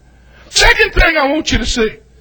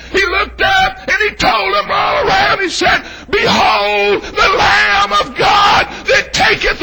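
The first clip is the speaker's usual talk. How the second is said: full-force preaching; 3 semitones higher than usual. Real, not acted.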